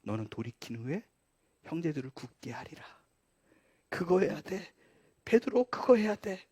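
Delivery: very soft, earnest reminder; tender charge. Acted. Jesus reminding Peter of his last words, tender. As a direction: entrust the task in a hushed voice. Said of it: "마지막에 뭐라 그랬어요?".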